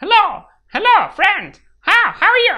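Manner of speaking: ringing, very high, loud cartoon character voice. Imitating cartoon characters, a high ringing cartoon voice. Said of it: "Imitate cartoon characters".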